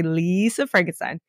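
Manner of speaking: LISA stretched with a long LEE, then Frankenstein; drawn-out Lisa. Shown as a demonstration. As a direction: drag out the first vowel of Lisa. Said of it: "So I always wanna say".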